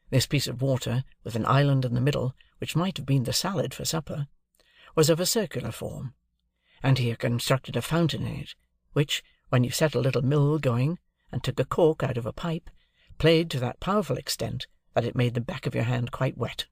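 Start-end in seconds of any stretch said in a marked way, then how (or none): none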